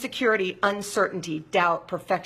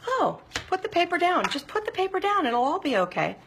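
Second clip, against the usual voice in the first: much higher, playful soothing voice; mock calming; 10 semitones higher than usual. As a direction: coax yourself like a fussing parent. Mock-calming herself over the paper.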